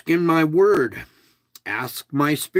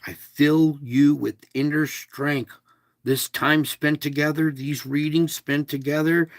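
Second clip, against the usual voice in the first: usual speaking voice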